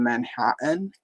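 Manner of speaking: "Manhattan" said the New York way; uncle's New York pronunciation. Retold or imitated. Niece echoing uncle who moved to New York, "Manhattan" in his pronunciation. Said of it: "that was how he would always pronounce it".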